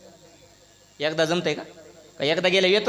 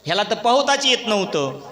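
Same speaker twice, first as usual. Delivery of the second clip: ordinary talk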